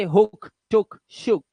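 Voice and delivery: हुक, टुक, शुक with a brief 'u'; short vowel sound. Shown as a demonstration. Teacher reading examples of the rule, short vowel sound. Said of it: "short vowel sound ऊ होगा".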